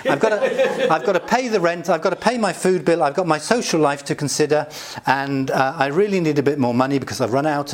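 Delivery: chatty daughter running through her needs; a daughter on the phone lightly asking Daddy for money. Retold or imitated. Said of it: "what she has just said is".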